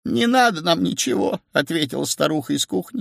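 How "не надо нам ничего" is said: put-on high-pitched old wife, refusing; upset old woman. A narrator's reading. Old woman answers from kitchen, upset. (расстроенная старуха высоким голосом)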